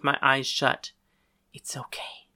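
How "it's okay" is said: hushed, soothing whisper. A narrator's reading. Girl comforting narrator curled on the ground, whisper. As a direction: whisper it to comfort someone in pain. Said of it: "she whispered".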